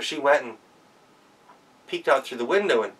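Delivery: plain reading voice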